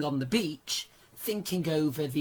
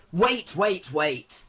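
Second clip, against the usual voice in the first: urgent, rising "wait, wait, wait"; excited interruption; 3 semitones higher, 5 dB louder, slower than usual. Real, not acted. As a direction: stop everything, something just came up. Breaking news interruption.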